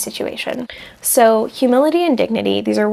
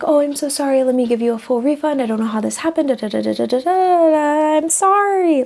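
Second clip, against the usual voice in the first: collapsing shopkeeper; 4 semitones higher than usual. Retold or imitated. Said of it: "if the shopkeeper's go-to is to collapse".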